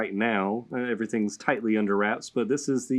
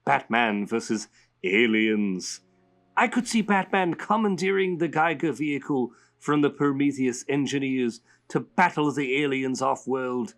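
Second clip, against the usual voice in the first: lightly raised comic villain voice; a hint of a playful villain reading a letter; Joker voice; 2 semitones higher than usual. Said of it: "I'm gonna say it in Joker's voice".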